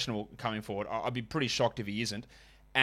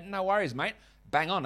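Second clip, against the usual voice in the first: higher-pitched mock Australian concierge; Australian accent; 6 semitones higher than usual. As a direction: play an obliging Aussie concierge. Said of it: "speaking like a, an Australian".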